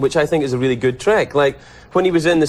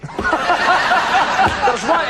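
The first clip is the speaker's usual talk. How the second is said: ordinary delivery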